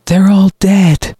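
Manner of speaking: high, slow villain voice; cold brother. Acted. Brother to his trapped sister below, cold. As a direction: speak coldly down to the victim, slowly.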